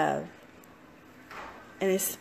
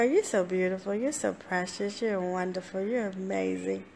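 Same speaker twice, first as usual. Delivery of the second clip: softer, gentle affirmations to yourself; tender self-talk; 5 dB quieter than usual. Retold or imitated. Speaker reassuring herself in her self-talk, soft and tender. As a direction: speak to yourself like someone you love. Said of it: "And I go".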